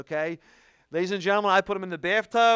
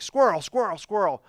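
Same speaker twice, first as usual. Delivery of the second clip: dog from Up; 3 semitones higher than usual. Retold or imitated. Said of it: "like in the film Up".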